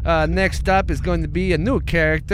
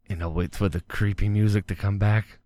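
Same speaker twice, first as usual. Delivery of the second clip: hint of an Amish man telling a grim tale; lightly played Amish farmer; Amish farmer character. Ed Yoder tells Amish story.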